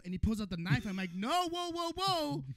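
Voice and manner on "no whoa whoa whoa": mock panic. A comedian pleading with a knife-wielding dealer in mock panic. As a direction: squeal it like you're about to be stabbed. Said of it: "doing deaf voice".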